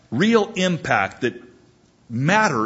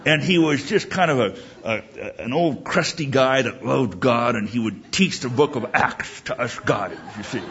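imitating Ebling's talk. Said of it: "he would talk like this".

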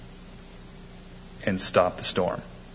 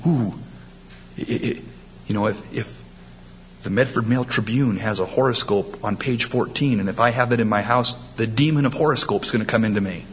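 mocking the fearful. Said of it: "People are saying".

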